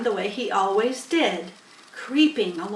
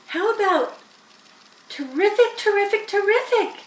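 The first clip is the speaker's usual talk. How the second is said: high, repeating goose voice with a honk; 12 semitones higher, 5 dB louder than usual. A narrator's reading. Goose eagerly pitching its idea to the barn.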